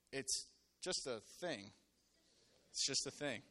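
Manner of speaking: calm reassurance. Shown as a demonstration. Preacher giving congregation a line to tell neighbors, low and calming.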